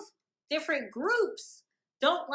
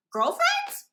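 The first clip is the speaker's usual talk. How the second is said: loud question shooting way up high; high, loud incredulous mock shock; shocked disbelief; 6 dB louder than usual. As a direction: blurt it as a stunned question. Acting out shock in her head.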